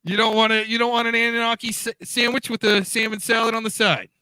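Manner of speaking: diner waitress. Pretend. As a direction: coax a customer into ordering. Pushing the sandwich again.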